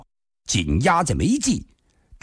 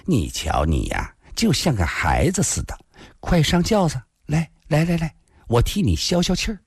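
coaxing; 3 semitones higher than usual. Acted. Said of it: "痴痴地笑道".

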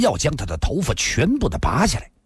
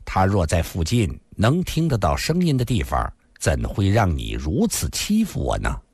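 flirtatious. Acted. Lin Xian'er flirts with Yiku, coy. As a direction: coax him playfully. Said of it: "林仙儿眼波流动".

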